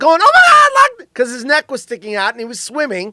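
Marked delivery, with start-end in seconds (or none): 0.2-1.1 high, loud, panicked freak-out. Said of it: "People were freaking out".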